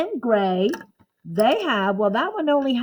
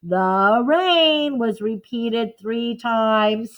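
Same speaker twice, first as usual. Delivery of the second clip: slow dictation; slower than usual. Shown as a demonstration. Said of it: "write that too".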